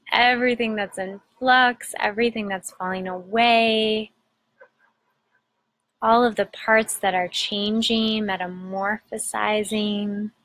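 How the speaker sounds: unhurried meditation guide with long pauses; measured, soothing guidance, phrase by phrase; guided meditation. Acted. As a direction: gently lead listeners inward, pausing between phrases.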